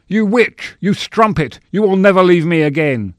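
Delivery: high, loud theatrical accusation; stage melodrama rage. Acted. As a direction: hurl it as a hammy horror-play villain. Melodramatic stage attacker rehearsing horror play.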